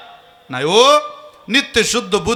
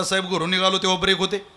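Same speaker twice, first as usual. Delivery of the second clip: pleading excuse; faster than usual. Retold or imitated. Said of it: "तो म्हटला".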